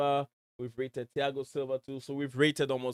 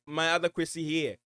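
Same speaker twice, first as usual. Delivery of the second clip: called out higher and louder, eager; excited greeting; 5 semitones higher, 6 dB louder than usual. Real, not acted. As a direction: hail the viewer with a lift of excitement.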